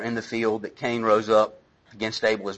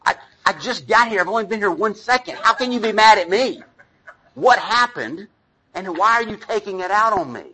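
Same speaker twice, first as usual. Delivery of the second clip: exasperated protest; 6 semitones higher than usual. Retold or imitated. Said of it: "you're like".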